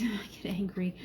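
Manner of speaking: whispered through a giggle; laughing whisper. Real, not acted. Owning up to her anger to the group, whispering through laughter. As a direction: confess it on a breathy laugh.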